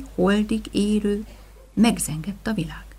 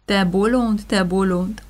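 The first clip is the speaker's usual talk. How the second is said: kindly; 6 dB louder than usual. Acted. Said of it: "mondta kedvesen".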